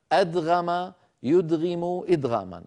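أدغم يدغم إدغاما with a vowelless d straight into gh; single unstressed dal. Shown as a demonstration. Teacher quoting what they used to say, أدغم with single d. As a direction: say أدغم with a bare dal, no doubling. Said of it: "كانوا يقولون".

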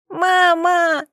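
put-on high, loud little girl's scream; a small girl screaming for her mother; child's scream. A narrator's reading. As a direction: scream for mum from below. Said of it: "вопила снизу Юла".

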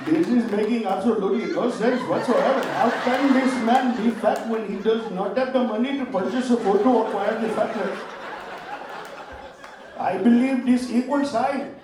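put-on lightly accented, baffled and formal; Asian mathematician accent. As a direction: play the stumped genius, a touch stiff. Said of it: "he will look at it and go".

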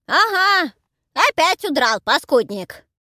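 high, loud shrill granny scold; old crone scolding. Acted. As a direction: scold a runaway old husband. Heroine plays deaf old crone. (старуха ворчит громко и визгливо)

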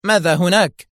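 loud, high anxious question; worried. A narrator's reading. Director asking about the phone call, worried. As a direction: ask in alarm for the news. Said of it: "فسأله المدير في قلق".

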